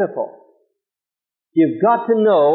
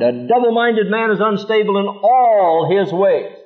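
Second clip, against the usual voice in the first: measured, solemn reading of scripture; solemn Bible reading; 3 semitones lower than usual. Acted. Reads scripture aloud.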